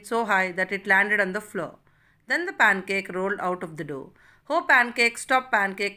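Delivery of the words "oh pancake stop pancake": calling out after it; loud pleading call; crying out. Acted. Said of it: "cried the woman".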